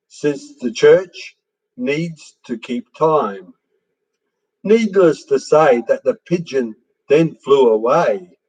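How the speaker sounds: measured verse reading with lilting phrases; poetry recitation. Acted. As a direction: recite light rhyming verse, pausing between lines. Reads second poem aloud.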